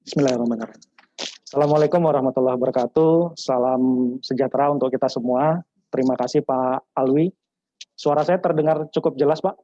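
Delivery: muffled behind a mask; through a face mask. Real, not acted. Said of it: "karena saya khawatir harus pakai masker, jadi suaranya sedikit terhalang". (suara teredam masker)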